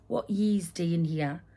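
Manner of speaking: Geordie dialect. Retold or imitated. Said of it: "in Geordie language".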